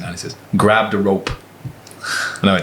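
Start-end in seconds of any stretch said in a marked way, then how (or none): 0.6-1.3 badly imitated Irish accent; mock Irish traveller accent; butchered Irish accent. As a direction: have a rough go at an Irish accent. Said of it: "this is where I butcher an accent".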